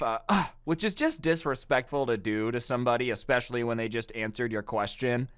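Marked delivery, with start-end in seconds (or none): 0.3-0.5 mock scoff. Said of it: "does a scoff".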